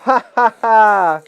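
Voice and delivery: bad guy laugh. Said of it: "Do your bad guy laugh".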